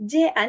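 "C A L" as dainty Turkish syllables; too polite, Turkish. Shown as a demonstration. Teacher mocking the wrong reading, "C A L" too polite. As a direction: read "C A L" lightly, without Arabic articulation. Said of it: "ne kadar kibar bak".

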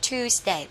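"Tuesday" with a long oo, "TOOZ-day". Shown as a demonstration. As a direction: hold the u in "Tuesday". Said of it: "u dài các bạn nha". (đọc "Tuesday" với u dài)

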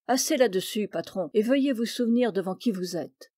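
somewhat stern, losing patience; impatient magistrate reprimanding the skipper, a bit harshly. Acted. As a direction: cut him off firmly. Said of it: "fit, un peu durement".

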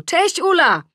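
high, loud hail; shouted greeting. A narrator's reading. Adam greeting Ula from the garden, shouting. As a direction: call out hello across the garden. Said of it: "Adam krzyczy z ogrodu".

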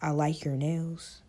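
slow, soft mockery; drawn-out teasing quote. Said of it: "gonna talk about some".

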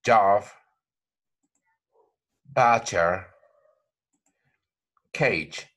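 each word said alone, clear and careful; model words. Shown as a demonstration. Teacher reading example words for learners, careful. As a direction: say "job", "butcher", "cage" like a pronunciation drill. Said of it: "used to pronounce words like".

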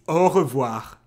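au revoir with a French throaty R; French pronunciation. Shown as a demonstration. Explaining how you say bye in French, French au revoir. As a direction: say au revoir as French 'oh ruh-vwar'. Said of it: "when you say bye, it's".

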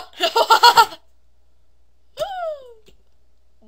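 loud high laughing burst, trailing off; dumb noises. Real, not acted. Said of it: "Dumb noises, though".

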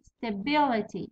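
Stability slowly, with 'bi' stressed. Shown as a demonstration. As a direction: lean on the middle 'bi' of Stability. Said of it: "ومن بعد بي".

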